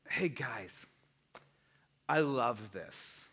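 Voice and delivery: hushed friendly opener; gentle whisper. Retold or imitated. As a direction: ease into it gently, almost whispering. Calmly addressing rowdy group.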